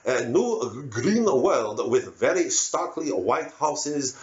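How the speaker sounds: halting put-on orator, slowing down; green visionary character. Praising a green manifesto, halting then slow proclamation.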